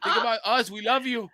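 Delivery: high mock tearful begging; Red. Friend begging Joel to think of family, mock tearful pleading. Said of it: "Red starts to cry and goes".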